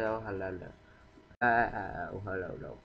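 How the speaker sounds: a mild mock of the villagers' hello; imitating villagers. Gamer mimicking Minecraft villagers greeting him, lightly voiced. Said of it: "they said".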